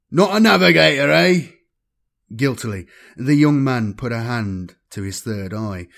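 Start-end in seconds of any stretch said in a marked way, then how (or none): 0.1-1.5 slow, amused and knowing; amused drawl. Acted. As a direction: drawl it with a smirk. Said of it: "He spoke in an amused drawl".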